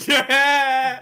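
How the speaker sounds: high laughing through auto-tune. Real, not acted.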